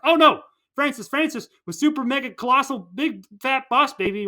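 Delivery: high, loud dramatic exclamation; mock horrified discovery. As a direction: cry out the big reveal in alarm. Characters' shocked discovery in retold plot.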